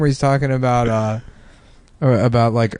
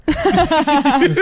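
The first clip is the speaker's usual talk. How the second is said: mock comic voice; 14 semitones higher than usual.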